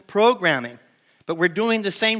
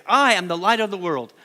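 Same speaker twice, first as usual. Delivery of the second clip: call and response line. Shown as a demonstration. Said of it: "Say that with me".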